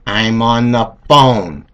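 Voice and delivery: slow, drawn-out warning; menacing mom. Retold or imitated. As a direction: hold each word as a last warning. Mom's final slow warning.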